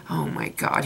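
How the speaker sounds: hushed, breathless oh my God; whispered gasp. Retold or imitated. Fan reliving the scene, whispering in shock. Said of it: "And I was like".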